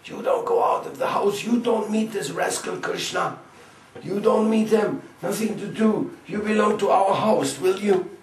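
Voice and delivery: put-on very high, loud scolding old women; high old-woman voice, bossy and loud; shrill guardian aunts. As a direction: screech at her like a strict mother-in-law. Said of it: "Jatila, Kutila ... says".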